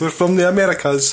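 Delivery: put-on American accent. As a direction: ham up a fake American accent. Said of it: "That's my new American accent".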